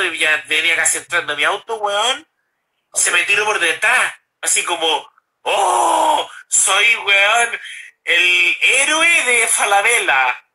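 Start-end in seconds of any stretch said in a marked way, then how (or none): 5.4-10.4 mock hero boast. Mocking the guard who tackled him.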